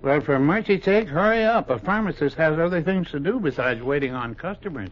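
exasperated. Acted. Pharmacist tells customer to hurry up, exasperated. Impatient druggist hurries customer.

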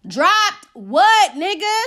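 high, loud acted comeback; retold indignant shout; exasperated retort. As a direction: throw the question back in mock outrage. Exasperated retort to screaming man.

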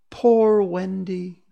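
slow, high plaintive moan; drawn-out mournful cry. Acted. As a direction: wail it out long and high. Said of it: "it moans".

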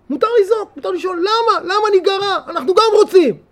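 fervent pleading; impassioned plea. Real, not acted. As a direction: cry out why are we left out. Preaching the right to cry.

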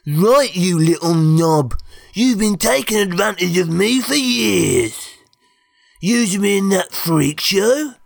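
loud, high dopey brute ranting; dimwitted brute finally fed up; angry dim giant. Acted. Plank rebels against his master.

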